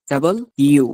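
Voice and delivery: "ডাবল ইউ" with the yoo lengthened; two clear words, "ডাবল ইউ", long final vowel. Shown as a demonstration. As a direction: hold the end of "ডাবল ইউ". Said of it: "ইউটা একটু লম্বা হবে".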